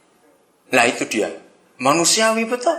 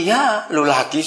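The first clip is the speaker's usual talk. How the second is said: calm shrug; 2 semitones lower, slower than usual. Pretend. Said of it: "kalau besok datang lagi".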